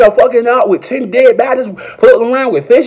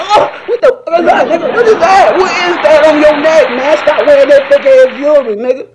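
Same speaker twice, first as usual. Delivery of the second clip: mock disgust; 7 semitones higher than usual. Mocking a man's fake chain.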